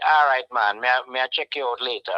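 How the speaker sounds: polite Jamaican goodbye. Shown as a demonstration. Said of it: "you could be very polite and say".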